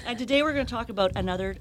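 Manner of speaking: fast, through leftover laughter; laughing. Real, not acted. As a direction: rush it out while still laughing. Still laughing after the joke.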